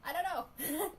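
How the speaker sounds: high, loud yelled answer; loud sharp voice. Real, not acted. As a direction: yell it back sharply. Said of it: "Why are we yelling?".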